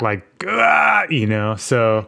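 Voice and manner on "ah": short, high mock "ah"; quick high-pitched exclamation, put on; mock cry. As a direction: imitate a brief high cry. Mimed cry in flashback with child.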